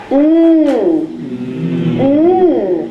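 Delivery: long humming "Mm" with tongue on the roof; drawn-out n hum for "Mm"; held N sound. Shown as a demonstration. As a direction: say "Mm" as nnn, lips apart. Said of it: "tongue now is up against the roof".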